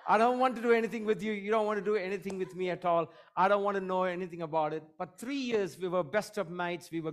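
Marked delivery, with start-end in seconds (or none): 0.1-4.8 rushed, raised comic brush-off; hammed-up hasty rejection, pitched up; mock refusal. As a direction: act out backing off in a hurry. Acts out recoiling from clinical psychologist.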